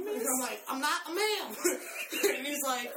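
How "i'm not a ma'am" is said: Joe Pesci voice. Retold or imitated. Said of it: "the Joe Pesci voice".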